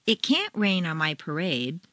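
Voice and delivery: can't punched; "can't" stressed clearly. Shown as a demonstration. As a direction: hit can't.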